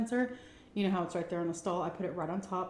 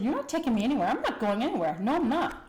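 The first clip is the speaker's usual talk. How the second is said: louder, higher defiant refusal; angry refusal; 4 semitones higher, 5 dB louder than usual. Retold or imitated. To her mother who wants a doctor, a higher, louder, furious refusal. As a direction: snap back at mom, refusing to go. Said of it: "I was so pissed off".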